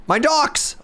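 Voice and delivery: squeaky laugh through the words; laughing dismay. Real, not acted. Player sees his docks gone, laughing in dismay.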